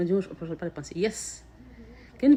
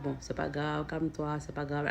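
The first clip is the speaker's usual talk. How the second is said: softer, gentle calming words; soul calming ego; 3 semitones lower, 5 dB quieter than usual. Retold or imitated. Her soul calming her ego, much softer. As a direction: hush yourself down tenderly. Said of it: "quand l'âme arrive à convaincre le gars".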